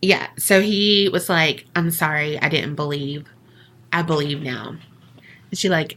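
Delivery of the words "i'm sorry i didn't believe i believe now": softer, lower mock contrition; sheepish apology. Retold sceptic apologizing to the entity, sheepish. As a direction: back down meekly, voice dropped.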